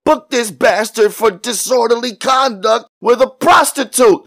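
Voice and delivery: high, loud, harsh order; harsh policeman. A narrator's reading. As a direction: snap out the charge as an irate cop. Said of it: "the white policeman said harshly".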